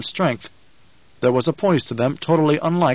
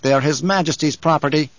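curtly. Acted. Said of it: "Kynes spoke curtly".

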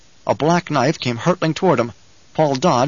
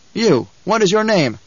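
high-pitched, commanding question; imperious, raised-pitch interrogation; demanding; 6 semitones higher than usual. A narrator's reading. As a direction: demand a prisoner's name. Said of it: "Paul demanded".

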